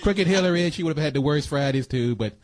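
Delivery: hammed-up bragging president, only lightly changed; Donald Trump impression. Host shows off his Trump impression to co-host, lightly voiced. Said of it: "That's my Donald Trump impression".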